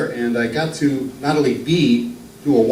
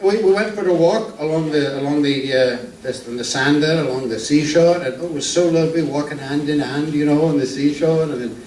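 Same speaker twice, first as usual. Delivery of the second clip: lightly voiced Archie Glenn; 4 semitones higher than usual. Introduced old northern comic telling jokes to the crowd, lightly voiced. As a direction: ease into a genial old music-hall comedian.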